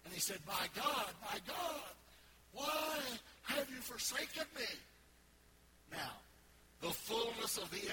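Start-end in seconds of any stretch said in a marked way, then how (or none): 0.5-4.7 anguished cry, slowing at the end; Jesus crying out from the cross; loud cry. Retold or imitated. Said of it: "He cried out with a loud voice".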